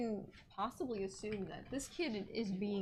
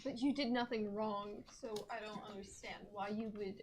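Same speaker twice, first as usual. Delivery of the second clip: off mic; 7 dB quieter than usual. Real, not acted.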